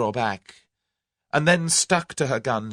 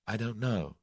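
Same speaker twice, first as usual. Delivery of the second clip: soft, forlorn reply; quiet forlorn admission; forlornly; 2 semitones higher, 4 dB quieter than usual. Acted. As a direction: let it sink, lost and lonely. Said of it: "said Tuppence forlornly".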